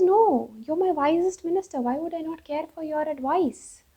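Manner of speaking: high-pitched royal protest, mildly acted; protesting king. King protests to his minister.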